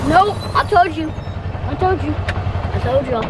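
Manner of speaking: frustrated, emphatic I-told-you; angry I-told-you. Real, not acted. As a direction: let the anger out in short outbursts. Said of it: "so much anger".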